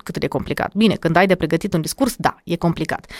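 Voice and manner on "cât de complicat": lower, with an unvoiced sigh at the end; half-whispered mock despair; mock groan. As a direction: play the overwhelmed student, lightly. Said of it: "nu din alea de".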